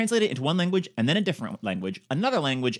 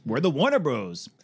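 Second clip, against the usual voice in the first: lightly voiced proud studio slogan, "Warner" punched; emphatic studio branch; 4 dB louder than usual. Host voicing the Warner Bros branch, mildly emphatic. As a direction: announce it as the bro-ish studio branch. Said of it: "they have the one branch that is just".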